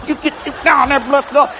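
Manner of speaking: high-pitched, worked-up command; straining order. Retold or imitated. Boy stuffing Fred down the hole, straining. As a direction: act out a heated struggle.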